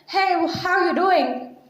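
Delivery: slow, casual American greeting; American accent. Retold or imitated. Teacher showing students an American greeting, mock American accent. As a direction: drawl it like an American would. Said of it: "They're doing".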